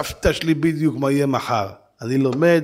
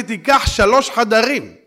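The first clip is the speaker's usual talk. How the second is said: wife's voice; 8 semitones higher, 5 dB louder, slower than usual. Retold or imitated. Wife voiced instructing.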